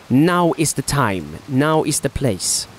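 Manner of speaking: slow, grand movie-trailer delivery; dramatic trailer voice. Acted. To viewers, urging them to subscribe, slow trailer voice. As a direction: sell it like an epic trailer, slowly.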